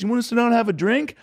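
high British caricature, inviting. Retold or imitated. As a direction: offer it in a high mock-British voice. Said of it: "a caricature of a, of a British guy".

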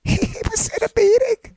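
high-pitched squeal of nerdy detective triumph; Marvin. Acted. Mock detective revealing a meeting, overexcited. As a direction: squeak it like a huge revelation. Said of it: "the overly aggressive, nerdy detective".

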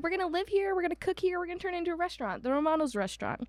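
high, fast mock Italian accent; playful Italian accent for the new owners. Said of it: "saying these, like, with an Italian accent".

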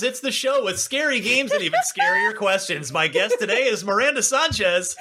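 bright announcer intro; show host. Pretend. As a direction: play the cheesy show host. Mock podcast intro.

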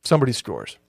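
upbeat sponsor ad read. Acted. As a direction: pitch it like a radio spot. Host reads sponsor ad.

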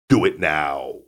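"Do it now" in a calm Arnold voice; understated Austrian action-hero accent; Arnold impression. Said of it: "That's a good Arnold impersonation".

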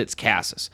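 "Casas" with a Spanish first half, KAH-sas. Shown as a demonstration. Correcting a player's name, "Casas" half said in Spanish. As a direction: soften the name Spanish style. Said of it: "first half we keep Spanish".

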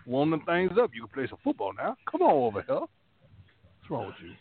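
a hint of a folksy southern lineman holding court; Whitworth impression. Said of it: "the speaker's impersonation of Whitworth".

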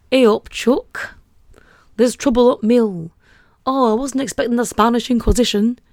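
hammed-up Yorkshire accent, loud at first; mock-Yorkshire Monty Python voice; Michael Palin's Yorkshireman. Shown as a demonstration. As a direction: do a comic Yorkshire sketch character. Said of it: "an impression of Michael Palin from Monty Python as a Yorkshire person".

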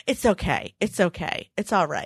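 put-on soft reassuring toddler voice; calm Mom down like a tiny adult; soothing toddler. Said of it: "And he would say".

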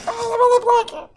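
put-on very high, squeaky baby voice. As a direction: voice the baby all rolled up in the blanket. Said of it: "it's like".

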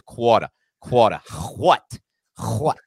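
put-on slow, loud old Southern accent; playful Southern accent bit. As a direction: drag out a hammed-up old Southern drawl. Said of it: "that's more like old Southern accent".

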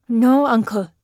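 lightly voiced frightened boy; muffled child. A narrator's reading. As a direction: refuse like a child clinging to a skirt. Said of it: "Peter's voice was muffled".

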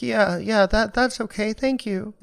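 imitating a nervous wreck; shaky mess. Nervous kid thanking the kind casting director, flustered. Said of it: "And I was just a mess".

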